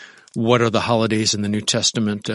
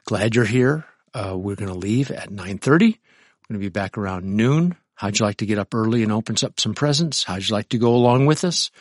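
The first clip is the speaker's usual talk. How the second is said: mild sweet invitation; a touch of cheerful kindness to mom. Retold or imitated. A son kindly inviting his mother-in-law, sweetly. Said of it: "And you're just sweet about it".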